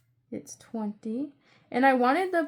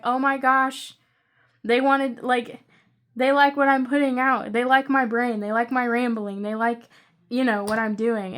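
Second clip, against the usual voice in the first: excited gushing; 6 dB louder than usual. Retold or imitated. Voicing delight at each new subscriber.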